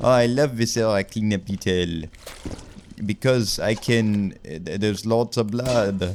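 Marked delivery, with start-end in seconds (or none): 0.0-2.0 put-on French vampire accent. Playing a viscera cleanup game, speaking as Count Dracula; French-accented Count Dracula voice. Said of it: "Why is he French?".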